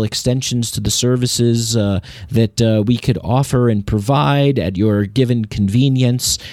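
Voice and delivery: a hint of smooth corporate salesman. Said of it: "I don't know what I'm talking about anymore".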